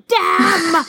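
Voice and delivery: sudden high "Damn!" of dismay; dismayed exclamation. Retold or imitated. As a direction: blurt it out, caught off guard. Retold reaction, comment already there.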